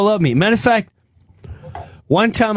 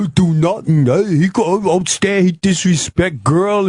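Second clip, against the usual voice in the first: lightly voiced albino; 5 semitones higher than usual. Mimics the albino protesting.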